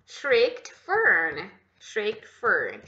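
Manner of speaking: "Shrieked Fern" read clearly, t audible; model reading. Shown as a demonstration. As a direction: model the phrase for students. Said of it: "É tipo isso". (leitura modelo de "Shrieked Fern")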